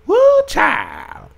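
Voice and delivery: put-on Woo shrieked very high, child dropping; hammed-up plantation accent, very high; mock slavery accent. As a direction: squeal the Woo way up. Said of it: "got my slavery accent on".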